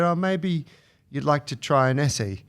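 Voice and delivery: imitated waiter with a light Birmingham accent. Waiter suggests an after-dinner drink, imitated Birmingham accent. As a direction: offer it in mock Brummie, dropping the H in "Essie". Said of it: "it's a Birmingham accent, I think".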